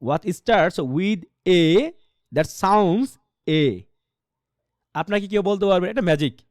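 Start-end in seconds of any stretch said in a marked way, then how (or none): 0.0-3.8 slow, deliberate English as if quizzing junior students; drawn-out quiz question to the class; lightly voiced classroom teacher putting a question; teacher's quiz question. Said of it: "সেটা হচ্ছে এমন".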